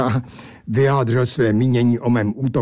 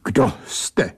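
restrained, dignified question with a touch of unease; understated formal politeness; dignified, slightly embarrassed; 3 semitones lower, slower than usual. Acted. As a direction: ask politely but a little hesitantly. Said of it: "zeptal jsem se důstojně, třeba že s jistými rozpaky".

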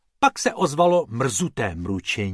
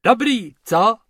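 laughing ranger; 9 semitones higher, 7 dB louder than usual. Acted. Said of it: "smál se".

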